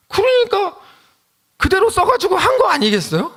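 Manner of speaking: very high-pitched, pleading argument; impassioned protest. Real, not acted. Preacher defending the pastor who copied, in high-pitched protest. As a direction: argue it in a high, strained-up pitch.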